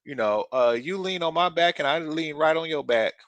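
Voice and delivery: a hint of Bubba from Forrest Gump; Bubba impression. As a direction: lightly do the soldier talking to his friend. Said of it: "Bubba comes up and he said".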